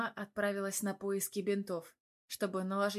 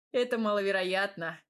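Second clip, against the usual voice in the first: chuckling; 5 dB louder than usual. Acted. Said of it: "хохотнул парень".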